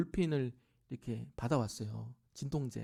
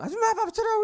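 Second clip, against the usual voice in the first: much higher, louder put-on voice of a pushy mother; bossy mother imitation; 11 dB louder than usual. Mother ordering the worker to set the table, high and loud. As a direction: bark the order like a brash old mother.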